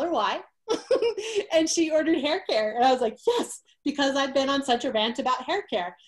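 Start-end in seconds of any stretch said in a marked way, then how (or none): 3.3-3.6 high, cheering yes; excited yes. Retold or imitated. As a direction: cheer it like a small victory. Cheering when the order came in.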